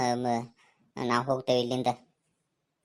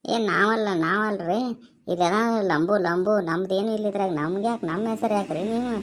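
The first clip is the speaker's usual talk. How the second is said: panicked denial; 5 semitones higher, slower than usual. Acted. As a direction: push the blame away in a panic. Denies blame to angry mother.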